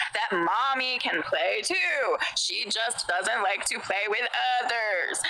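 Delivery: slow, menacing mother's threat; creepy mommy voice. Acted. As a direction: drag it out like a threatening mom. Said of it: "I'm terrified".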